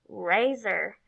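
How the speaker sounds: "Razor" run together as one word; "Razor" said whole as the final word; blended syllables. Shown as a demonstration. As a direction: join both syllables of "Razor" without a pause. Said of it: "blend those syllables together".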